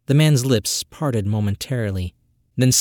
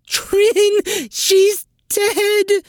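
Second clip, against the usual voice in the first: high wailing cry of grief; shrieking, grief-stricken wail; howling; 4 dB louder, much slower than usual. A narrator's reading. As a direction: howl it out in anguish. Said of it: "Sin howled".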